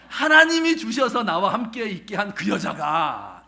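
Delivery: man shouting his excuse, loud and indignant; blaming excuse. Acted. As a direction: throw the blame back at God. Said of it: "이렇게 대답합니다".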